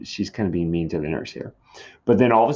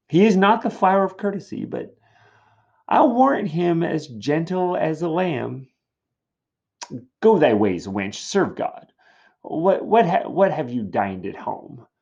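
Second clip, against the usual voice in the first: teasing nurse; 8 semitones higher, 4 dB louder than usual. Acted. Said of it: "she's like".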